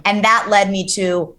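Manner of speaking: ordinary delivery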